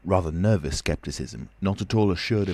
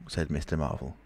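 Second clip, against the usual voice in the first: usual speaking voice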